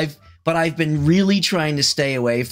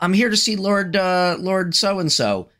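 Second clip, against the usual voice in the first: higher-pitched, hesitant petitioner; high visitor voice, fumbling the name; visitor to a lord; 7 semitones higher than usual. Acted. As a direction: play a visitor explaining himself to a guard. Acting visitor to the guard.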